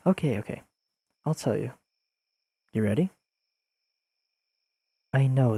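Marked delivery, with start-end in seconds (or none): 0.1-3.1 whispered okay, okay, giving in; playful whisper. Acted. To a friend who begs to hear it, whispered teasing.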